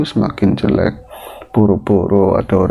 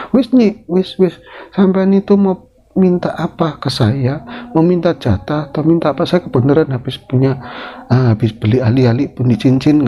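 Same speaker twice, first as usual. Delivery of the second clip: Ratmi dismissive; 6 semitones higher than usual. Acted. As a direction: wave her off contemptuously.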